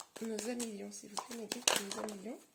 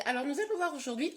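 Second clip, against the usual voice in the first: voice cracking; 3 semitones higher, faster than usual. Real, not acted. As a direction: voice breaking mid-sentence. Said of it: "ma voix déraille". (voix qui déraille)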